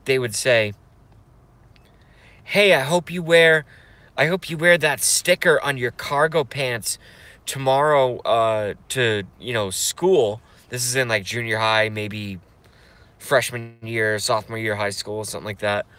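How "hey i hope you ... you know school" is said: mocking mean girl. Imitating a mean girl prank-calling him in a taunting voice. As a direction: sneer it like a teen bully on the phone.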